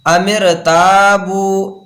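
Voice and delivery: slow अमिर ताबू with a light R; thin R. Shown as a demonstration. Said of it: "यहाँ पर पूर्ण नहीं पढ़ेंगे". (अमिर ताबू, रा बारीक, खींचकर)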